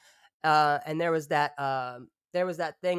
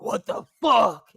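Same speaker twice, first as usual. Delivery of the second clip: louder, slowed startled outburst; retold waking shock; 5 semitones higher, 10 dB louder, slower than usual. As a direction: blurt it like you just woke up confused. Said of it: "and I was like".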